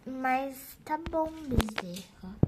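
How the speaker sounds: sarcastic drawl. Acted. Sarcastic dig at attendant Bezerra.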